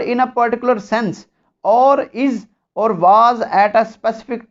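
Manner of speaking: very slow, word by word reading of the law; slow dictation. Shown as a demonstration. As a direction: dictate each word so students can write. Dictating statute text slowly. (बहुत धीमे, शब्द-शब्द बोलकर लिखवाना)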